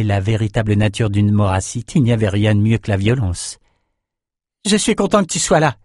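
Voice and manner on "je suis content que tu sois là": lightly voiced hero, raised pitch; a relieved fighter to his ally; Bannon's line. A narrator's reading. Bannon to Lila, relieved hero voice. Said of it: "lança Bannon".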